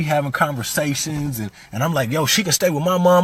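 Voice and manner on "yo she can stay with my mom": getting mad. Retold or imitated. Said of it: "I'm getting mad".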